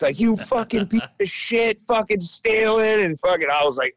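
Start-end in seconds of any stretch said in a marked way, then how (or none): 0.2-3.0 higher, angry dad tearing into him; retold rant, a furious father's voice; father yelling. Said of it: "giving me the riot act".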